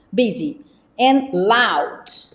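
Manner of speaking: slow model pronunciation. Shown as a demonstration. Teacher modelling words for students, slow and careful. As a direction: spell out each word for the class. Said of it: "Fala assim, ó".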